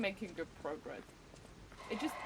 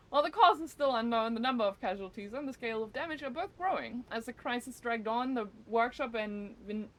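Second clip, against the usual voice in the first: newscaster voice; 3 semitones higher, 3 dB louder than usual. Shown as a demonstration. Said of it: "in such a newscaster voice".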